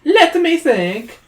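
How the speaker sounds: high, slow troll musing; pondering troll. Acted. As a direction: stretch it out thinking as the troll. Troll thinking.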